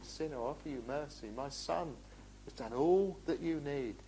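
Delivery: soft, quick, gentle plea to the sinner; God's quiet offer of mercy to the hardened sinner; hushed tender offer. Retold or imitated. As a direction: hold back the anger and offer mercy softly. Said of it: "He holds his wrath back".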